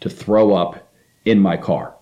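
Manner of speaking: measured, understated stern lecture; retold stern warning. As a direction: lay down the rule firmly, without raising the voice. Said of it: "I had a stern talking".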